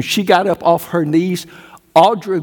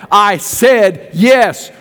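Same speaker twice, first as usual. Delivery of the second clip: slow shouted yes; 3 semitones higher, much slower than usual. Retold or imitated. Retelling his call to preach.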